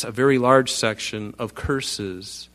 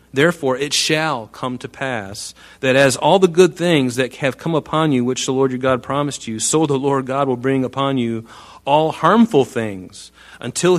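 scripture reading; 3 dB louder than usual. Acted. Reads scripture aloud to congregation.

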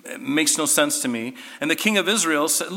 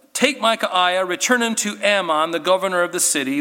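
raised, louder furious command; angry king's order; 5 semitones higher, 4 dB louder than usual. Acted. King Ahab, mad at Micaiah, orders him taken away angrily. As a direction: bark the order at the prophet. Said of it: "and he's so mad at Micaiah".

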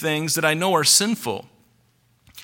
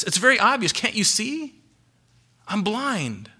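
mock-incredulous blind man, higher pitched; 4 semitones higher than usual. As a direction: protest as if it were painfully obvious. Acts out blind man's incredulous reply.

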